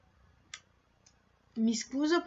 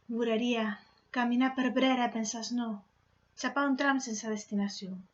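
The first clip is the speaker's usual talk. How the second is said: poem recitation. Acted. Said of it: "recitare una poesia che ho scritto in milanese".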